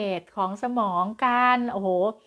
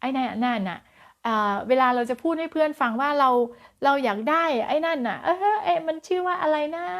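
mock forgetful groping; 6 semitones higher than usual. Shown as a demonstration. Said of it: "ให้เรานึกถึงตอนที่".

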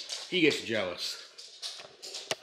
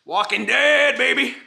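loud, high fan cheer; excited cheer; 8 semitones higher, 9 dB louder than usual. Real, not acted. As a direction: hype up the show. Shows off his shirt.

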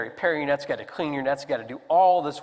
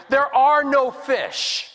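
exasperated Peter; 9 semitones higher, 5 dB louder, much slower than usual. Retold or imitated.

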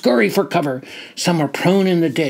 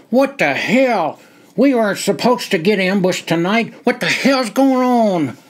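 angry, indignant, climbing higher; spat out; 4 semitones higher than usual. Acted. Captain snapping at the stranger behind the log, angry. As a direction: demand an answer, annoyed. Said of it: "spat out".

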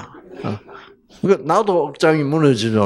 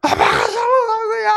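put-on whiny child. Daughter blaming her father while hitting him. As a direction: whine it like a pouting little girl. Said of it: "때리는 거야".

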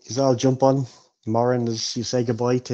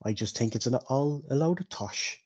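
higher-voiced, chatty innkeeper; 3 semitones higher than usual. Innkeeper tells Bilbo about the drinker at the bar, chatty. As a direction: gossip like a village innkeeper, pitched up.

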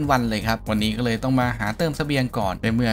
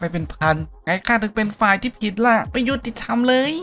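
bitter protest; 10 semitones higher than usual. Acted. Fish seller protests before death.

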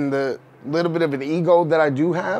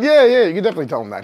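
quick, bright yes, higher and louder; eager agreement; 4 semitones higher, 5 dB louder, much faster than usual. Retold or imitated. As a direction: rush to agree, fast and keen. Eagerly agreeing with his brother.

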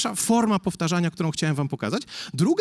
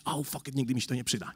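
much softer, bored brush-off; dismissive mumble; 5 semitones lower, 8 dB quieter than usual. Retold or imitated. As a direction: shrug it off under your breath. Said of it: "wy mówiliście". (lekceważące mamrotanie uczniów)

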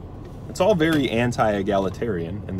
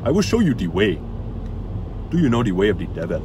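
mock Ugandan Knuckles accent, lightly done; imitated Ugandan accent; faster than usual. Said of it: "They talk with this accent".

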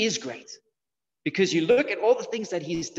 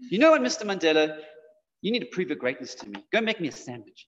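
disrespectful. Acted. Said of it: "you wouldn't say this".

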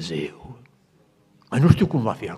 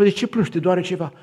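worried question; 8 semitones higher, 5 dB louder than usual. Retold or imitated. Nurse asking the crying woman.

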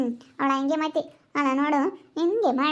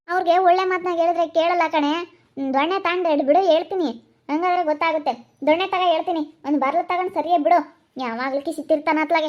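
irritated, raised-pitch tirade; cross scolding; 3 semitones higher than usual. Acted. Madam urging helper to use the stick, scolding. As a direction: complain and threaten impatiently.

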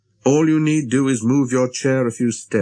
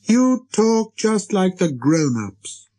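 put-on high, slow child-prince reproach; little prince, reproachful; 9 semitones higher, much slower than usual. A narrator's reading. Little prince shaming the busy pilot, reproachful.

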